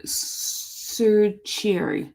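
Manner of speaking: very slow, drawn-out "certieri", T as ch; careful pronunciation attempt. Shown as a demonstration. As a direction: stretch out "certieri" syllable by syllable. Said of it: "I'm just gonna say certier".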